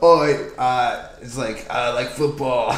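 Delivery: halting attempt at a British accent; bad British accent. Correcting the other's impression of a football fan, bad British accent. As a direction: have an unsure go at British football-fan talk. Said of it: "how to do a British accent".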